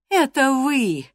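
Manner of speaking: sudden high exclamation; a startled, glad cry at the door; exclaiming servant. Acted. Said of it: "воскликнула она".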